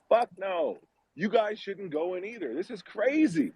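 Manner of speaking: high-pitched retold disbelief; incredulous refusal. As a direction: refuse in high-voiced alarm, as if retelling it. Retold refusal of a creepy invitation.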